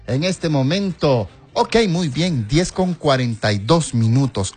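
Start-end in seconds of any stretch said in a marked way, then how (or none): 0.1-1.3 llamado agudo y sostenido; llamado efusivo. Real, not acted. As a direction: anuncia su llegada con la voz en alto. Llama a un hermano en broma. (llamado efusivo en español)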